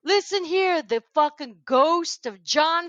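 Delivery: high-pitched imitated rant; Michael Rapaport. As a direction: act out an outraged warning, relishing each curse. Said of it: "and then he goes".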